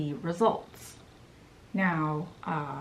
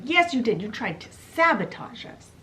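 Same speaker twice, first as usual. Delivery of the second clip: louder, higher accusing fairy; heated retort; 4 semitones higher, 3 dB louder than usual. Retold or imitated. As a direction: jab back, louder and higher.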